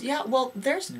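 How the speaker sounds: high, slow mock-complaining caller; imitating the caller. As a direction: whine it up high like a fussy parent. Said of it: "And he goes".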